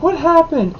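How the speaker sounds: a hint of a worried teacher; lightly voiced teacher. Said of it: "she's like".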